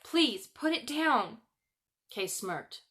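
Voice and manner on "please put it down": high, slow, breathless begging; girl begging the boy to spare her rose; painfully high plea. Acted. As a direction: plead with him, near tears. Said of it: "her voice was painfully high".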